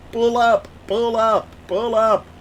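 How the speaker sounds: lightly imitated automated alarm, evenly spaced; cockpit warning voice. Pilot streamer mimics the plane's pull-up alert, lightly robotic. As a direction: repeat it like a warning system.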